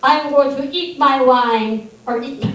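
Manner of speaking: lightly mock a smug Frenchman; mock French accent. Teasing a French soldier with a mock French accent. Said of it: "what the Americans think of the French".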